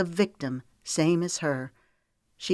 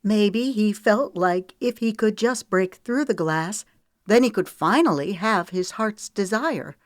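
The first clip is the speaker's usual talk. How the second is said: higher, louder catching voice; voice hitching; 5 semitones higher, 5 dB louder than usual. A narrator's reading. Woman pleads with Moose, voice hitching. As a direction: let the voice catch on the tears. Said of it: "Her voice hitched".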